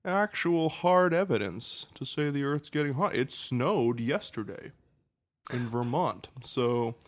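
high-pitched folksy politician; American politician voice. Retold or imitated. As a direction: play a dodging American senator. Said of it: "I love your American politician voice".

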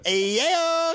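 high, loud laughing burst; big laugh. Real, not acted. Cohosts crack up over a religion joke, laughing hard.

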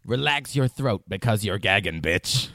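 put-on sassy drag voice; lightly hammed Widow Von Du; imitating Widow. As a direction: deliver it like a menacing queen. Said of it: "she says".

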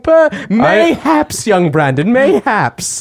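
slow hammy olde English drawl; lightly hammed faux Shakespearean; olde English accent. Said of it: "stuck in this accent".

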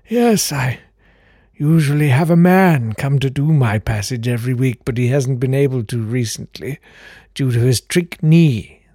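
put-on very high, airy old gentleman; fluting count voice. Old count answering the door, very high fluting voice. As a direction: pipe up like a fussy old aristocrat.

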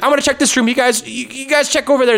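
high brisk orders; high bossy voice. Retold or imitated. Monica directing guards.

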